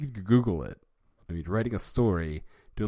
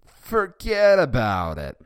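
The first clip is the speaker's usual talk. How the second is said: loud, slow, higher yell; 7 semitones higher, 11 dB louder, slower than usual. Acted. Bart yelling at Nelson so the whole cafeteria hears. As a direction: bellow it across the room. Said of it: "yelled so the cantina heard".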